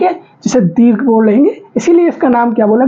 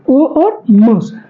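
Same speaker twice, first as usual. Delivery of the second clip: slow, separated letters; much slower than usual. Shown as a demonstration. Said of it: "ओम दो अक्षर से मिलकर बना है".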